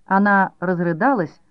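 usual speaking voice

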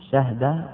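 "شهد" as shahda, no vowel on ha; "شهد" closed up as shah-da; variant shahda. Shown as a demonstration. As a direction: say "شهد" with fatha, then sukun. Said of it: "أربع لغات".

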